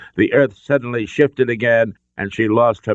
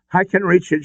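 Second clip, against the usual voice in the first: gasped; 10 semitones higher than usual. A narrator's reading. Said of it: "she gasped".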